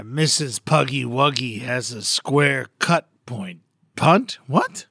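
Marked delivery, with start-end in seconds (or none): 0.0-3.6 slow, deliberate reading; slow tongue twister. Shown as a demonstration. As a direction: read it carefully. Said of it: "a little dirty tongue twister".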